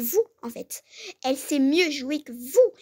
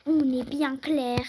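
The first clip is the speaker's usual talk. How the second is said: angry mother threat. Acted. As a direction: lay down the law to the coach. Mère menace l'entraîneuse. (mère en colère, menace lente et appuyée)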